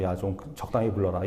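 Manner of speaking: low, soft, imagined weary complaint; mock fed-up. God, tired of being called on, answers the congregant, mock fed-up. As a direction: play lightly at being sick of it. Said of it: "하나님이 막 질려가지고".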